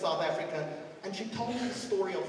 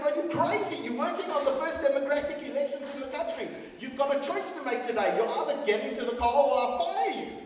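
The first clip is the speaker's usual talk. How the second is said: exasperated boss; 6 semitones higher than usual. Retold or imitated. Boss tells prosecutor to get in the car, exasperated. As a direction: scold him for refusing. Speaker berates Victor.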